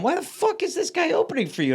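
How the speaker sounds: high-pitched, incredulous quote; indignant disbelief. Retold or imitated. Fans confront the headliner after the show, indignant disbelief. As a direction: imitate baffled fans demanding an explanation. Retold fans protesting about the opener.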